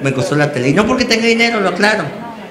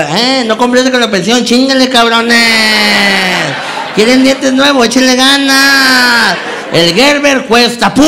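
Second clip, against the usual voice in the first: high, slow, hammed-up cheering on the old men; rally the elderly baggers like a mock coach, cheering them on; mock pep talk; 7 semitones higher, slower than usual. Comedian spurring on the old baggers, hammed-up high coach yell. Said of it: "les motivaba".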